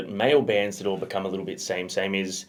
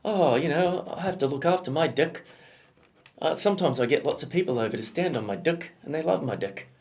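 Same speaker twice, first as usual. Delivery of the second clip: put-on New Zealand accent; 5 semitones higher than usual. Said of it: "there's a New Zealand ad".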